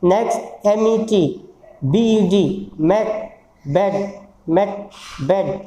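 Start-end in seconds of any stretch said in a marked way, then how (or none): 4.5-5.5 मैक and बेड said slowly, contrasting the e sounds; teacher repeats मैक, बेड slowly; slow demo. Shown as a demonstration. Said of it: "बार बार उच्चारण करके देखेंगे".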